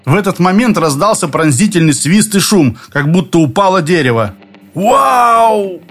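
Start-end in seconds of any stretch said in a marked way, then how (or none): 4.7-5.8 high startled cry; stifled yell. A narrator's reading. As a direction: yelp as a tree crashes down. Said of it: "сдавленно проорал Пашка".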